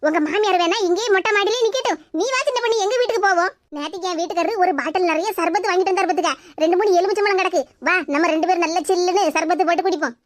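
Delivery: neighbour woman. Acted. Neighbour woman comforts daughter-in-law.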